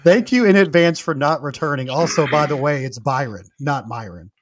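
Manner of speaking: pointedly polite owner's reply, starting loud; passive-aggressive. Retold or imitated. Club owner correcting a banned customer, passive-aggressive. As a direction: read it as a courteous put-down, punchy then easing off. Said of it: "I love the, uh, the passive aggressive tone".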